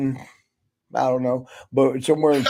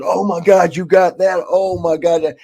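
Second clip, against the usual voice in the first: higher, louder mock amazement; retold excitement; 3 semitones higher, 4 dB louder than usual. Wrestler spots the special Cuban cigar, imitated as excited. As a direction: imitate someone thrilled at a rare find.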